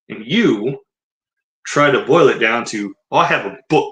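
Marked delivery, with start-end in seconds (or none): 3.1-3.9 lightly mocking impression; mock-boastful quote, lightly put on; Ray Comfort. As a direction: slip briefly into a hint of impersonation. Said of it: "That's Ray Comfort".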